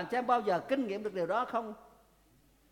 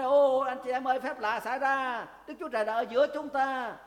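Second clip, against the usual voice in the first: higher, louder amazed exclamation; amazed crowd; 5 semitones higher, 5 dB louder than usual. Retold or imitated. Townspeople in the synagogue marvelling at the miracle, excited cry. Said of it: "Họ nói".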